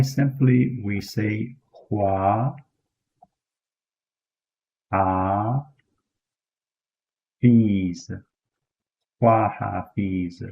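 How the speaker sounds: "hua ha fees" broken into slow syllables; Kurdish goodbye. Shown as a demonstration. Teacher models Kurdish goodbye in slow parts. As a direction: build "hua ha fees" up piece by piece. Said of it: "So to say goodbye".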